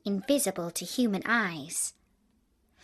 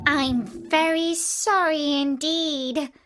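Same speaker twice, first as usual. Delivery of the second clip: put-on apologetic girl; 5 semitones higher, slower than usual. A narrator's reading. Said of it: "said Dorothy".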